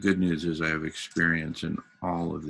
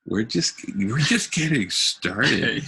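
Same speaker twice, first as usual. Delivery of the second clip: higher, louder, slowed for emphasis; excited; 5 semitones higher, 4 dB louder, slower than usual. Real, not acted. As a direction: build it up with excitement. Hyped-up emphasis on the schedule.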